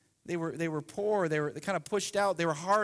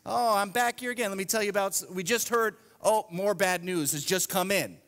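mock newscaster; 2 semitones higher than usual. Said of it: "You look at the news".

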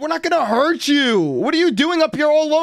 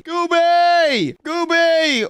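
calling out; 3 semitones higher, much slower than usual. Acted. Searching for lost friend.

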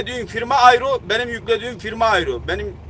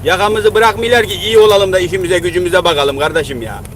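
louder exasperated outburst; complaining to a viewer, louder and exasperated; real frustration; 3 semitones lower, 6 dB louder than usual. Real, not acted. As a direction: vent it, fed up with everyone.

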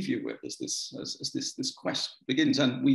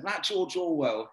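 slow, higher, imitated broad Suffolk accent; 4 semitones higher, slower than usual. Old grocer confides about George Orwell, broad Suffolk accent. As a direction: draw it out like an old Suffolk local. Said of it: "he said in his broad Suffolk accent".

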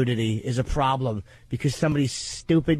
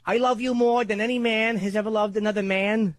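a lightly voiced, bad Pacino impression, pitched up; half-hearted Pacino line, pitched up; 6 semitones higher than usual. To the co-host, a bad Pacino impression, pitched up. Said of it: "That was, that was a bad impression".

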